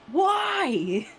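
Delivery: laughing. Real, not acted. Laughing through the question.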